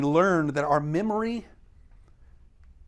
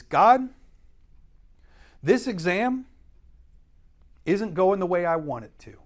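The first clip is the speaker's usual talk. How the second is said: a petulant complaint, pitched up at the start; grumbling complaint to God; 3 dB louder than usual. Retold or imitated. A discontented believer complains to God, mildly petulant. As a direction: whine at God like a discontented child. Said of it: "what we are saying is".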